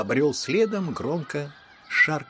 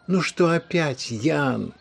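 tired sigh; 4 semitones higher, 6 dB louder, slower than usual. A narrator's reading. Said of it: "громко вздохнула мама".

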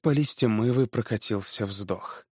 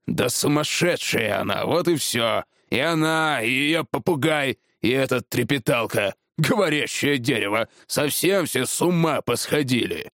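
lightly voiced, irritated tree feller; dismissive husband; 2 semitones higher than usual. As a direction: wave it all off as madness. (раздражённый голос мужа)

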